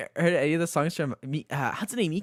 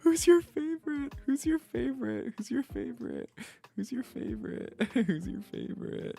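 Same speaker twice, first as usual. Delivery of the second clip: excited then fading; 9 semitones higher than usual. Real, not acted. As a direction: ask again and again, winding down. Repeating the question, calming down.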